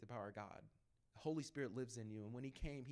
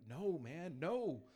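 retold loud no, rising at the end; loud refusal; 4 semitones higher, 7 dB louder, much slower than usual. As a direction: shout a gruff refusal as he storms off. Drunk man refusing prayer outside.

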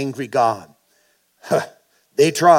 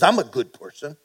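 mild imitated protest; 5 semitones higher than usual. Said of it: "He goes".

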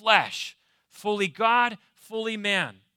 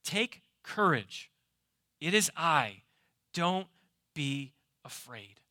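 reassuring quote; 3 semitones lower, slower than usual. Shown as a demonstration. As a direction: let each word land gently. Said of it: "Just sit with that word".

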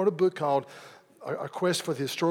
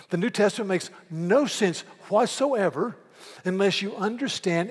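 fervent preaching; 2 semitones higher than usual. Acted. Pastor urging his congregation from Romans, fervent preaching. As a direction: drive the scripture home to the congregation.

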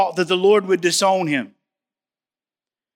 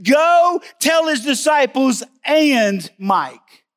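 slow and higher, calling the words out; preaching shout; 4 semitones higher, slower than usual. Acted. Preacher voicing Jesus to a congregant, slow calling shout. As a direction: call it out like a message from Jesus. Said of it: "he's telling you".

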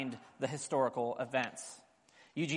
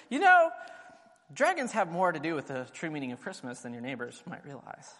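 corny youth pastor. Retold or imitated. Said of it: "in my corniest youth pastor voice".

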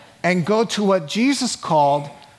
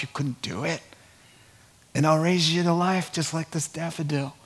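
tender; 5 semitones lower than usual. Acted. Daffodil voices Christ's love.

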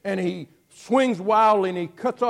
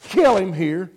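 frantic scheming; 7 semitones higher, 4 dB louder, faster than usual. Retold or imitated. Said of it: "they thought".

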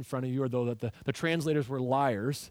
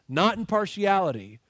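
NOT hit louder and higher; stress on NOT; 4 semitones higher, 5 dB louder than usual. Shown as a demonstration. Pastor showing where James puts emphasis, stressed. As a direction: punch not in partiality up front. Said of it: "His emphasis is clear".

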